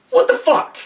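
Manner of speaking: very high, loud exasperated cry; angry outburst. Real, not acted. Reviewer exploding at the plot hole, shouting. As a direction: throw up your hands and yell. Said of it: "I'm sorry if I'm getting mad here".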